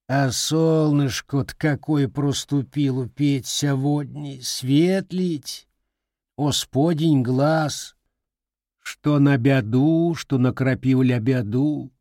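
put-on old village woman. Grandmother musing to the boy in a lightly voiced folksy way.

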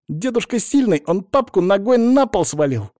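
put-on boastful child. A narrator's reading. Little boy boasting about grandpa.

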